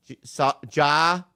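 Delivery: "jaw" stretched slow; slow drill. Shown as a demonstration. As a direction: sound out "saw, jaw" carefully. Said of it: "Say jaw".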